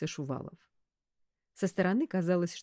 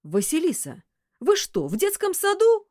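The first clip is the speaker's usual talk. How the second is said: much higher, louder outburst; fearsome voice; 12 semitones higher, 8 dB louder than usual. A narrator's reading. Boss scolds secretary, fearsome voice. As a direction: roar the reproach. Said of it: "страшным голосом сказал".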